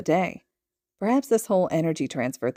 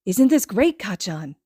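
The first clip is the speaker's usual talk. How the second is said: put-on excited child; 5 dB louder than usual. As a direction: gush to your friend. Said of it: "he says".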